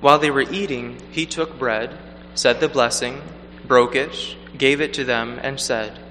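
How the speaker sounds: measured liturgical proclamation; Gospel reading. Acted. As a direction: read solemnly from the lectern.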